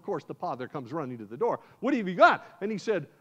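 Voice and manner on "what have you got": eager question. Acted. Father answers the door.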